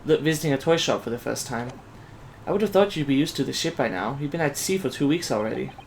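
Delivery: put-on soft, lightly Asian-accented young assistant; restrained Asian accent, softly spoken; light Asian immigrant accent. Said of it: "like, an Asian immigrant".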